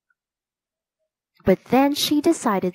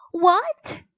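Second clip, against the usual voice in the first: horrified; 9 semitones higher than usual. Acted. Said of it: "The princess was horrified".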